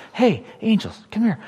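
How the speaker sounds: bad Joe Biden imitation. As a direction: mumble it like a weak Biden imitation. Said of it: "that's not a good imitation".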